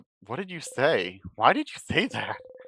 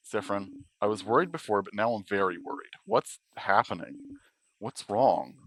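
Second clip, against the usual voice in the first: worried companion voice; 4 semitones lower than usual. Acted. Odile voiced in a game.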